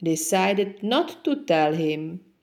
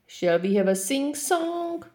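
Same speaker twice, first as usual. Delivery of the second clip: high, unvoiced whisper of the little lion; 8 semitones higher than usual. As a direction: ask it breathlessly, saving the voice. Lion saving his voice.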